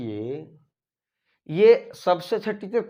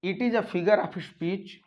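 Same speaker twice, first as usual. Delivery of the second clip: slow dictation; 2 semitones higher, much slower than usual. Shown as a demonstration. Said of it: "re-dictating definition".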